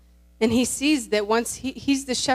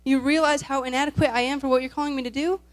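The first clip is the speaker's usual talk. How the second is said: mildly desperate, pitched-up protest; desperate pleading; 2 semitones higher than usual. Retold or imitated. Moses begging God not to send him, mildly desperate. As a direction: plead your inadequacy with a touch of desperation. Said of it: "out of desperation, going".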